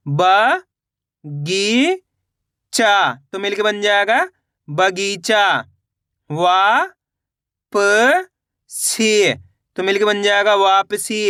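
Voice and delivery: level sing-song recitation, syllables drawn out; measured classroom chant with stretched endings; spelling drill. Shown as a demonstration. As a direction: sound it out for beginners, letter by letter.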